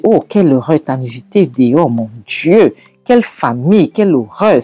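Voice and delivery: acted horrified exclaiming, rising and falling; mock-scandalised mother-in-law; appalled lament. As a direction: lament the family shame with swooping pitch.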